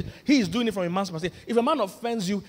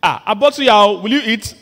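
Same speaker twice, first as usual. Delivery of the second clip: playful offer; 5 semitones higher, 10 dB louder than usual. Acted. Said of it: "I say".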